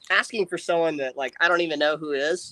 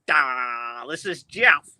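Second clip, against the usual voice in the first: goofy fake Jeff voice; 3 semitones lower, much slower than usual. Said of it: "I'm all".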